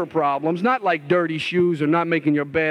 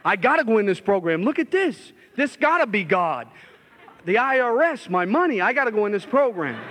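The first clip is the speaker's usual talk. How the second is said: excited; 4 semitones higher than usual. Retold or imitated. Check arrives, overjoyed realization.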